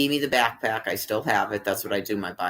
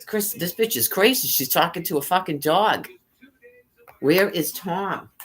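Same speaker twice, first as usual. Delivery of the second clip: higher silly voice for the other dog; dog's voice; 7 semitones higher than usual. Retold or imitated. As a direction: voice the other dog, mocking and outraged. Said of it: "Other dog is like".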